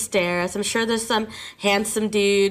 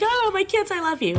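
mock tearful, pitched way up; playfully acting out her future teary speech; imitating crying; 13 semitones higher than usual. Teacher imitating her own teary thanks to her students. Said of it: "I know I'm gonna cry and be like".

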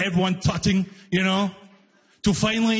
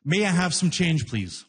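polite request; 3 semitones lower than usual. Retold or imitated. Comic to booth guy, mildly polite. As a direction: ask sweetly, trailing off. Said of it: "Very politely".

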